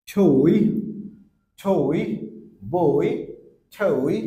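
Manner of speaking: ছই and বই said loud, o gliding into i; loud example words. Shown as a demonstration. Teacher giving example words to the class, loud. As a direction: belt out ছই, বই with a full o-to-i glide. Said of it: "sound হবে বই".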